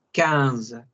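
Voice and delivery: quince said kanz, nasal IN vowel, QU as K; French quinze. Shown as a demonstration. Teacher models French fifteen: quince said nasally as kanz. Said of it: "I N suena como vocal nasal".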